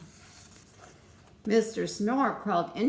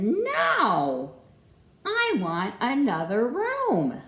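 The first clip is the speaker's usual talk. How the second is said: shout; 5 semitones higher, 6 dB louder, slower than usual. Acted. Mister Snore refuses blanket.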